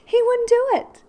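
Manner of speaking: laughter pushing the voice way up; can't stop laughing at the story. Real, not acted. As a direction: squeal it out through real laughter, high and loud. Laughs at friend's mishap.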